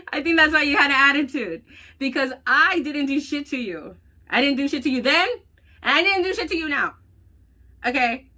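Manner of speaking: loud, high and near tears; tearful angry defense; heated retold outburst. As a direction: relive the blow-up, voice cracking.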